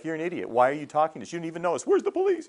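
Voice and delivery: high-pitched, rising comic alarm; mock indignant strangers. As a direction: act out affronted passers-by, building to a yelp. Imagined strangers reacting to him.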